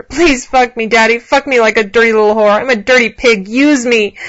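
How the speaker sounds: high, loud pleading voice; begging. A narrator's reading. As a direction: beg eagerly and loudly. Woman begging during sex.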